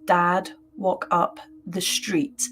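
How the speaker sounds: slow, lightly voiced old hag; a hint of a creepy old crone, drawn out slowly. The ghost woman speaking to her on the stairs, lightly voiced slow old hag. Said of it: "in a very old, I mean, an old lady hag kind of voice".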